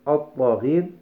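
الطاغين said at-taghin, with no lam and a doubled ط; lam assimilated. Shown as a demonstration. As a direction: jump from the hamza to a stressed ط in الطاغين. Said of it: "فننطق بالكلمة هكذا". (النطق بالطاء المشددة مباشرة: الطاغين)

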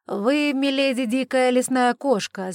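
loud, high, drawn-out complaint; indignant exclamation. Acted. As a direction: stretch out the accusation in outrage. Indignant lord after being hit.

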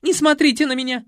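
high, loud cry; embarrassed screaming; yell. A narrator's reading. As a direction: shout at the men. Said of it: "заорала".

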